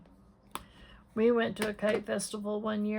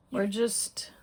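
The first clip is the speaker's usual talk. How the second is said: whisper. Real, not acted. Passing aside while crafting.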